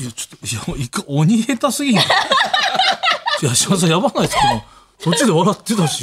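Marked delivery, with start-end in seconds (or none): 0.0-4.4 laughing in disbelief; teasing through laughter. Real, not acted. Laughing at botched reading.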